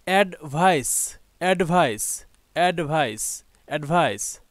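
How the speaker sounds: "অ্যাডভাইস" as "অ্যাড-ভাইস", repeated with falling end; teacher modelling "অ্যাডভাইস" for learners to copy; pronunciation drill. Shown as a demonstration. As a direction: drill "অ্যাডভাইস" four times, evenly spaced. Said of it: "উচ্চারণগুলো জেনে নেই".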